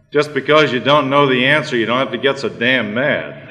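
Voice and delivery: a hammed-up yell that starts high and loud and then settles; a sulky punchline called out from the jungle; mock yell. Lion to the elephant after being tossed, a mock yell. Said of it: "yelled out".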